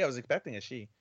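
quiet, earnest and sincere. Shown as a demonstration. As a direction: say it softly, in all sincerity. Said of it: "In all sincerity".

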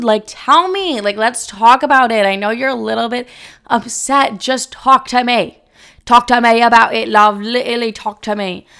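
hammed-up coaxing, pushed and insistent; mock-pleading with a put-on lilt. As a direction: act out begging him to open up. Acts pleading with the guy.

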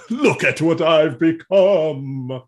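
mopey lament. Retold or imitated.

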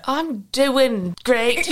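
slow, drawn-out mock-British reply; put-on British accent. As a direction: answer in a playful British accent. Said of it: "start talking in that accent".

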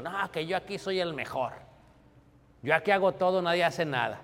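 mock the arrogant leader who thinks he's the best; boastful proud leader. Preacher imitating a proud church leader, boastful. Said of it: "un hermano que es líder y bien soberbio".

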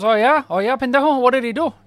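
high, loud sarcastic challenge; mock him with scorn; taunting. Old man taunts the other, loud sarcastic challenge. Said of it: "He goes".

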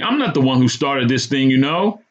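angry. A narrator's reading. Choked man to cop removing handcuffs, angry. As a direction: protest your innocence angrily. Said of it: "I said angrily".

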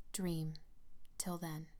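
soft, intimate murmur; hushed, trailing into near silence. A narrator's reading. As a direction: murmur it softly to your sweetheart. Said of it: "he murmured".

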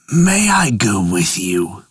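low, slow bull voice. Acted. Bull asks to come.

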